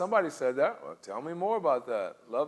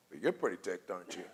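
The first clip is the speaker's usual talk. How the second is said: soft demo; 8 semitones lower, 8 dB quieter than usual. Shown as a demonstration. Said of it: "what you can do is you go".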